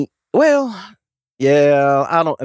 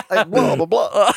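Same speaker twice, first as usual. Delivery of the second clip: higher, joking Transylvanian vampire noises; mock Transylvanian accent; 8 semitones higher, slower than usual. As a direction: play up a silly Transylvanian accent. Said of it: "you're from Transylvania?".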